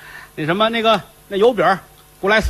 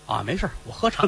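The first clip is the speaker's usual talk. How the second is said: offhand master; 9 dB quieter than usual. Acted. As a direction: wave him off, unbothered. Fifth Master answers casually.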